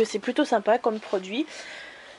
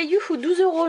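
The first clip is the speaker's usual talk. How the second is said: mock cheer; 7 semitones higher than usual. Mocking a small cheque.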